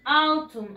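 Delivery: "Autumn" said as written, OW-toom; spelling pronunciation. Shown as a demonstration. Teacher sums up the spelling, "Autumn" as OW-toom. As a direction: sound both vowels at the start of "Autumn". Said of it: "Así se escribe".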